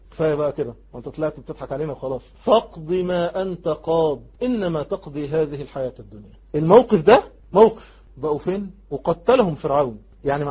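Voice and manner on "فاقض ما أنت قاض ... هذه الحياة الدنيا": slow recitation, softening toward the end; resolute recitation. Acted. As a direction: begin drawn out, settle down calmly. Recites the sorcerers' reply. (تلاوة متمهلة تهدأ في آخرها)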